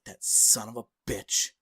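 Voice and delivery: slow, deadpan retold cursing; mildly sarcastic grumble, drawn out; David Sedaris. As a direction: curse slowly with dry sarcasm. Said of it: "sarcastic and, you know, whatever".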